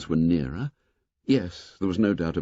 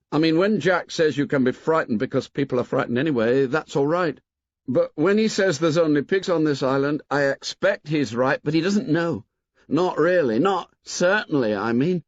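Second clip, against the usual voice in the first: put-on boy's voice; 6 semitones higher than usual. A narrator's reading. Maurice voiced as a boy.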